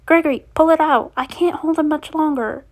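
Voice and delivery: high, urgent plea starting loud; urgent call. A narrator's reading. Roxy struggling to hold Monty, urgent high call.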